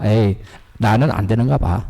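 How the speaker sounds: lightly acted letdown; mock discouraged giving up. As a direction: imitate someone giving up, pitch dropped low. Voices someone giving up.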